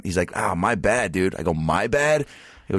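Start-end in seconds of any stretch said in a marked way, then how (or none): 0.4-1.3 casual apology. Retold or imitated. Barber's apology, echoed back after. 1.5-2.3 higher, questioning throwback of MY BAD; incredulous echo. Customer echoing barber's weak apology, retold disbelief.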